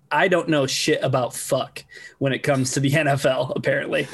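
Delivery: lightly done Missouri twang; Ruth from Ozark twang. Retold or imitated. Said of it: "in my best Ruth from Ozark voice".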